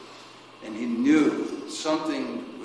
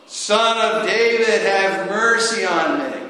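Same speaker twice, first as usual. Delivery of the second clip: crying out all the more; 7 semitones higher, 5 dB louder than usual. Retold or imitated. Preacher voices the blind man crying over the crowd, louder pleading cry. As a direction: lift the plea like a desperate beggar. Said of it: "cried out all the more".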